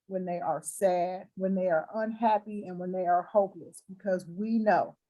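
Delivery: closing prayer. Acted. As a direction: pray over her gently, like in church.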